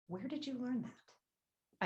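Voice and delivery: slow hushed question. Acted. Repeats question softly and slowly.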